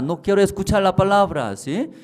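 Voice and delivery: high, loud voice of someone refusing to listen; a hammed-up stubborn listener; mock listener. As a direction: play the one who won't hear it. Preacher voices a hostile listener.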